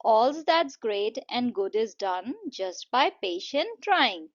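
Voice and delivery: slow, deliberate verse reading; poem recitation. Shown as a demonstration. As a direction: read out the verse slowly, word by word. Reads poem lines before explaining. (धीरे-धीरे कविता पाठ)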